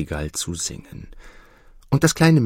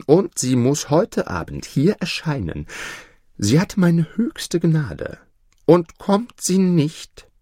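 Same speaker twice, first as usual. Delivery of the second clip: lofty, higher imperious emperor voice; emperor's command; 6 semitones higher than usual. Acted.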